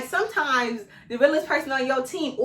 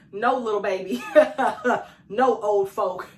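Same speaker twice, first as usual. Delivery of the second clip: sassy quick refusals with laughs; checking disrespect; slower than usual. Retold or imitated. She tells everyone no, sassy and laughing. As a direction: shut each one down playfully. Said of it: "Say something and verbalize it".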